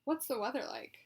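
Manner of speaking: strong voice, each word deliberate and intonated; deliberate, with intent. Shown as a demonstration. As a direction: model phrases clearly for someone to repeat. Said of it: "make sure you're saying each word, um, deliberately".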